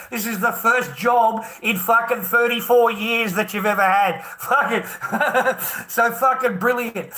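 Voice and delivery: laughing through the words. Real, not acted. Husband mocking wife's first job, laughing. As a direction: crack up mid-sentence in disbelief.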